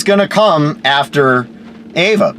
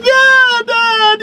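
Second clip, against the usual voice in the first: sarcastic yeah dad. Retold or imitated. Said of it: "she's like".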